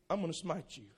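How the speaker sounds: soft, low, limp "I'm gonna smite you"; a weak mock threat; puny threat. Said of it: "That just isn't fighting words".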